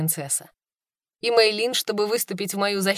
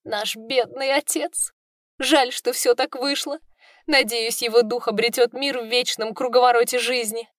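holding back tears; 4 semitones higher than usual. Acted. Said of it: "будто пытаясь удержать слёзы".

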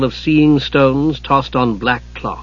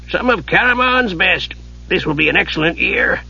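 put-on old wizard; 5 semitones higher than usual. A narrator's reading. Old wizard praises the inn's ale, savouring. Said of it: "The wizard wiped his mouth".

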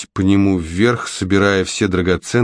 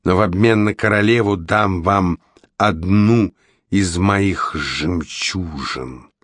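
sea witch voice. Acted. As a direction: purr like a scheming sea witch.

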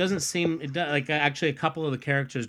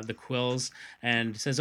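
ordinary talk, nothing marked

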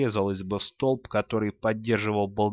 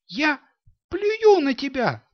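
put-on high girl's shout, slow and spitting; яростный высокий крик девочки; defiant shout; 5 dB louder than usual. A narrator's reading. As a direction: fling it at her father, pitched up. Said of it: "закричала Рони".

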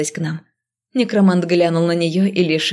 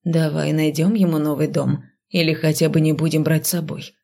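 coaxing gently. Acted. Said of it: "ласково уговаривал Рентан".

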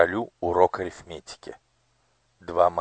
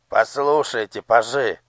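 lightly voiced old man, higher and a bit louder; quavering old voice; 4 semitones higher, 6 dB louder than usual. A narrator's reading. Old master of ceremonies calls the pages, quavering. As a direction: call the pages like a doddering old courtier. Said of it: "дребезжащим голосом".

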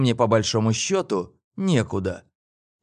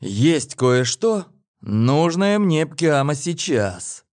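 slow; 4 semitones higher, much slower than usual. Acted. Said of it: "проговорил я".

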